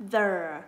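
"the" as one isolated syllable, dropping in pitch; âm mẫu. Shown as a demonstration. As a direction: sound out "the" loud and falling. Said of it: "Âm". (đọc rõ riêng âm "the", hạ giọng)

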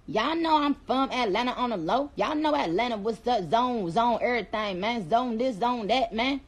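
lightly put-on Atlanta street talk; Atlanta accent. Shown as a demonstration. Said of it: "I already did Atlanta".

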